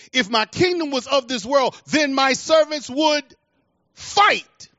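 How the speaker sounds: building from steady to a high, far-reaching cry on fight; rising preached declaration. Acted. Preacher quoting Jesus to the congregation, rising to a cry. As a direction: climb toward the last word like a pulpit call.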